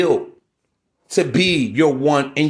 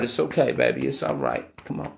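mock soothing; 4 semitones lower, 7 dB quieter than usual. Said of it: "pandered to".

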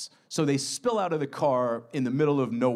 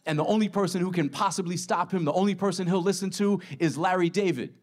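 higher, breathless plea to a stranger; urgent pitch; 6 semitones higher than usual. Acted. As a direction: sell it fast and urgently, voice up. Miri cold-calls the manager.

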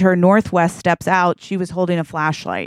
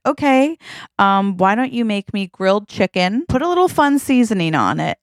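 Kim; 3 semitones higher than usual. Acted. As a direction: order lightly in a raised, singsong pitch. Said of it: "Kim's like".

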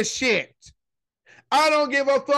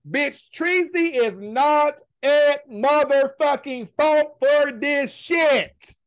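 emphatic shout; slower than usual. Real, not acted. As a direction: drag it out and shout the last words. Heated defense of Teresa.

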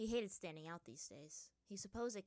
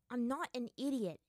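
louder, higher, rough retort; 4 semitones higher, 9 dB louder than usual. A narrator's reading. Aang rejects the monkey's trick, roughly. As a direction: push back with raised, irritated voice. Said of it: "Aang said roughly".

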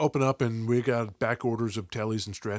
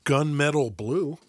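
radio voice; 3 semitones higher, 4 dB louder, slower than usual. Pretend. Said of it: "say these in a radio voice".

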